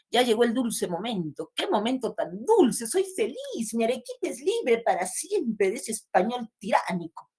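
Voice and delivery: expressive recital with lifted, swinging pitch; poem recital. Acted. Teacher reciting a patriot's happy poem to class, expressive recital. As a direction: declaim the joyful verse with lively swells.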